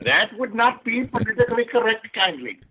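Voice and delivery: hammed-up Indian accent. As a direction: finish primly in a put-on Indian accent. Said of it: "giving you an Indian accent".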